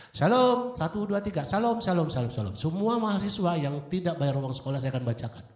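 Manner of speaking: high, loud announcer over a speaker; mock a school PA call, mic check first; loudspeaker announcement. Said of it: "bunyilah speaker".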